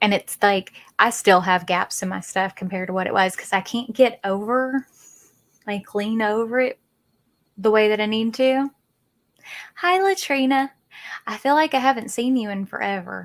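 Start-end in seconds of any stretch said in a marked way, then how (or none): 9.8-13.2 strong, very country Southern accent. Greeting Latrina: sounding really country. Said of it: "That sounded really country".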